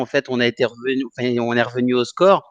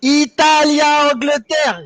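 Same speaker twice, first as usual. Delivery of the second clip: announcer voice; 11 semitones higher, 4 dB louder, much slower than usual. Real, not acted. Host announces the final.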